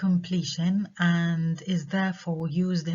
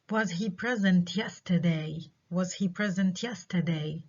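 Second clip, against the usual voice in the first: slow question, open at "yesterday"; rising yes-no question; slower than usual. Shown as a demonstration. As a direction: ask it slowly, leaving "yesterday" unfinished. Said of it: "rising intonation".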